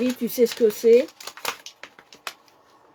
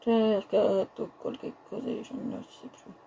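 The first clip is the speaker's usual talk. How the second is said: mock Italian; 8 dB quieter, slower than usual. Mock Italian fading to whisper.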